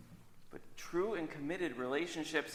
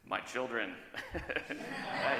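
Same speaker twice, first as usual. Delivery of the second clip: nervous laugh; much slower than usual. Acted. Justice asked whom he fears.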